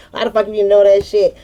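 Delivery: quick brother's cussing with laughter breaking in; imitating the brother while cracking up, fast; laughing through it. Retelling her brother cussing her out, laughing fast. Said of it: "my brother cussed me out".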